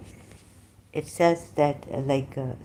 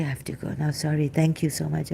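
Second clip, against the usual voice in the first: usual speaking voice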